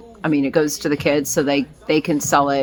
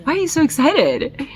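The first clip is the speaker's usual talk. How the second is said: high, squealing excited voice; giddy excitement; 12 semitones higher than usual. Retold or imitated. Telling the assistant about the ding, high and giddy. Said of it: "at first I was like".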